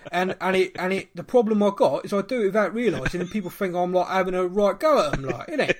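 light London accent. Shown as a demonstration. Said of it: "I can go, like, all London".

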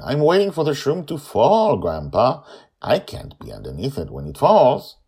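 put-on high, impatient child voice; patiently explaining the obvious; exasperated girl. A narrator's reading. Joy explains to Grandpa with a sigh, high child voice.

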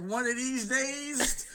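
slow, menacing sitcom husband; Archie Bunker. Retold or imitated. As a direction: growl a slow threat. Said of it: "Joey looked at you like, like, like Archie looks at his wife".

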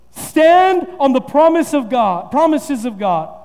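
slow, emphatic preaching cadence. Acted. Pastor drives the points home, slow and emphatic. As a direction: build each name like a sermon point.

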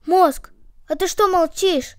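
worried. Acted. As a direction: prod the silent one anxiously. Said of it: "забеспокоились ноги". (обеспокоенно)

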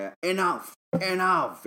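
high-pitched retold shout of a wrestler; imitated shout. Big Show on the mic heading in from the stage, mock shout. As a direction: call it out high, only half shouted. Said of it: "وماسك المايك يصرخ".

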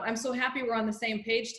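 imitating a presumptive, self-satisfied line. Host mimicking the mother's presumptive reply. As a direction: say it as if it's already settled. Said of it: "like, the presumptive".

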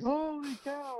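high, drawn-out mock alarm; high-pitched imitation of startled disbelief; retold exclamation. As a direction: call it out high, as if reacting to a blast. Retold reaction to explosions in bay.

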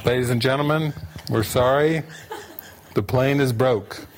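lightly voiced gate announcement; a hint of an apologetic airline announcer. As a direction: apologise like an announcer, with halting pauses. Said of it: "It came up".

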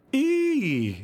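high drawn-out "eee" squeal; children's squeal. A narrator's reading. Children in the dark at the witch game, squealing high. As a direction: squeal it high, then slide down. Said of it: "said the children".

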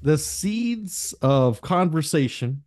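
slow, smooth Midwestern imitation; lightly imitating a friend's smooth podcast voice; Jason's smooth voice. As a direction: draw it out silky like Jason. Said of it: "That accent too".

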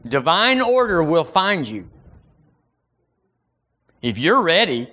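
ordinary talk

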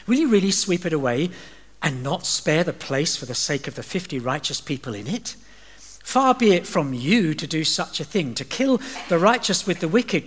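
earnest, rising plea to God; a lightly voiced pleading Abraham. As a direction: bargain boldly but humbly.

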